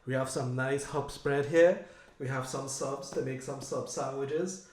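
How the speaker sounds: loud, gleeful excitement over food; can't wait to dig in; greedy glee. Real, not acted. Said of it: "I'm so excited".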